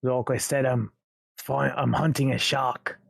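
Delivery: lightly voiced British gangster questioning. Intruder questions man hiding in cellar, British gangster accent. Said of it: "sounding like a British gangster".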